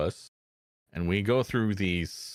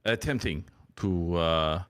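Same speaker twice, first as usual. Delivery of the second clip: mock French accent. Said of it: "mangling ... a French accent".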